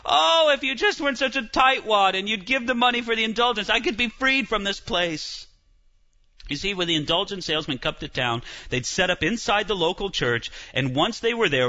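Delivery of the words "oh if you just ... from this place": higher, pushy sales pitch of a preacher; guilt-trip the crowd; lightly voiced indulgence seller; persuasive preacher. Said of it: "They'd say".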